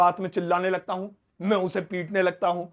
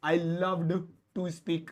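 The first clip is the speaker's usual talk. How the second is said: slow model sentence; 4 dB quieter, much slower than usual. Shown as a demonstration. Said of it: "slow model of past form".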